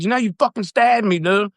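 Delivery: high, rising disbelief; incredulous alarm. Retold or imitated. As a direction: tell her in disbelief, pitch way up. Telling her she stabbed him.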